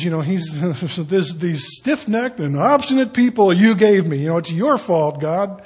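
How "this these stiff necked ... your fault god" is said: a fed-up Moses, lightly voiced; mock exasperated complaint. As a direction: grumble it at God, half-hamming. Moses blaming God.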